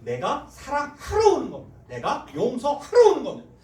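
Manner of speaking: loud, high impassioned sermon; full-force revival preaching; fiery preaching. Acted. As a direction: preach it hard to the pews.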